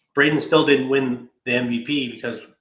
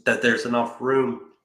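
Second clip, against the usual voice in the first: choking on a drink; words catching in the throat. Real, not acted. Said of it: "Choking there".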